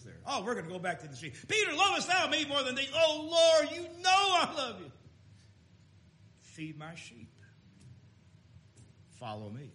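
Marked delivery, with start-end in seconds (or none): 1.5-4.9 pleading dialogue. Retold or imitated. Question and Peter's anguished answer. 6.4-9.7 soft tender command. Retold or imitated. The Lord answers, soft and low.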